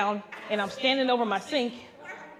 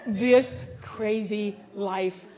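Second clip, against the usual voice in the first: loud high exasperated rant; sassy disbelief; incredulous complaining; 4 semitones higher, 4 dB louder than usual. Retold or imitated. City girl complaining.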